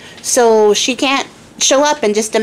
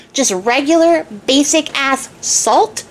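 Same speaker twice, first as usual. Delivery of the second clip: higher, slow sneer on basic-ass; scornful king; 4 semitones higher, slower than usual. Acted. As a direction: sneer at the salt. King mocks the salt answer.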